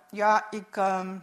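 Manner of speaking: put-on halting, hesitant boy, stuck on his words; stammering. A narrator's reading. Boy caught out by his uncle, stammering mildly. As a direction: stumble through it, lightly voiced. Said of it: "Ik hakkelde".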